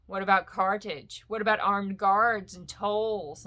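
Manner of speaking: a hint of a gloating, wily dragon; sly taunting dragon. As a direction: needle the hobbit, enjoying it. Smaug taunting Bilbo at length.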